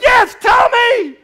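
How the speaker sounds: high, loud, slow eager cry; excited shout. Retold or imitated. Listener begging the speaker for the secret, excited shout. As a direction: shout tell me, desperate to know. On the edge of his seat.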